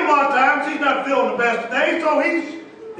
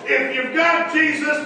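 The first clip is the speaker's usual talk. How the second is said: slow emphasis; much slower than usual. Real, not acted. Preacher stretching the key line.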